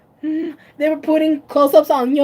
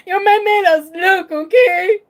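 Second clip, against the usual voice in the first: sassy emphasis; 5 semitones higher, 4 dB louder than usual. Real, not acted. Teasing her friend about her idol, sassy. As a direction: lay it on with attitude.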